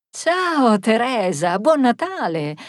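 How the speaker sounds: lifted, hearty Christmas greeting; warm greeting. Acted. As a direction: return the greeting warmly. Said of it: "ricambiò Marisa calorosamente".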